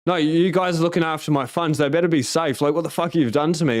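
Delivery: indignant retelling of a rant; retold indignant rant. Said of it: "started going on this rant".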